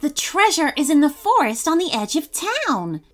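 excited. Acted. Abigail reveals the map.

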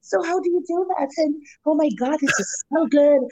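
a hint of a customer's Canadian accent; mock white customer. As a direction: gush like an impressed white customer. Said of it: "They always say that".

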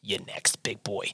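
very soft, low teasing murmur; old designer teasing the next customer; sultry hush. Acted. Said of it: "she goes".

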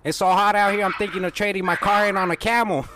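chirpy cold-call salesman; cheerful phone-sales voice to a pretend customer; telemarketer voice. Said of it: "just pretend I'm calling you".

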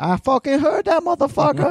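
high mock-indignant call-out. Real, not acted. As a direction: call out as if someone overheard. Calls out to wife off mic.

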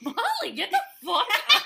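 high, fast, laughing mock yell; hammed-up impression of an impatient friend. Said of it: "and you go".

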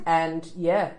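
muffled behind a hand; hand over mouth. Real, not acted. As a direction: talk through your fingers. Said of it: "Take your hand away from your mouth".

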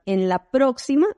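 "en la próxima" slow, stretched próxima rising; examiner's instruction. Retold or imitated. Imitating the driving examiner, slow stretched instruction. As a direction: drag out "próxima" like a careful instructor. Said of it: "Para mí, la próxima no es esta".

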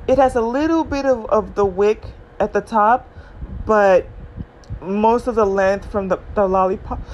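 talking through hiccups and food; hiccuping while eating. Real, not acted. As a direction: explain with gum and hiccups. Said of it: "And now I have hiccups and I'm eating".

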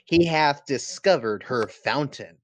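mock-solemn Southern preacher reading scripture. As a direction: drawl the verse like a Southern preacher. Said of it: "let me get my Southern preacher voice on".

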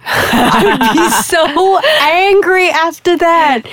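slow words through laughter; laughing. Real, not acted. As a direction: laugh while saying it. Laughing at the idea.

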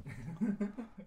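a real, airy laugh breaking out; burst of laughter. Real, not acted. Radio host laughing at his own cake story. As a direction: let a laugh escape at the memory.

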